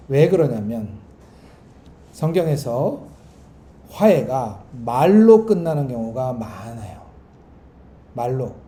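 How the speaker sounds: ordinary delivery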